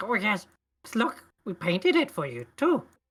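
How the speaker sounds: squeaky, very high, sing-song goblin voice. Voicing small creatures showing off their work: kobold voice. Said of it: "you can hear the other little goblins like".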